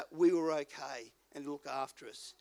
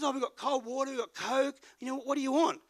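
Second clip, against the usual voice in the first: friendly host; 6 semitones higher, 4 dB louder than usual. Retold or imitated. Guy listing drinks.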